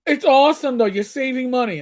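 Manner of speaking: put-on high, bright child cheering up; cheery child voice. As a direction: lift the pitch like a happy kid. Niece cheering uncle up.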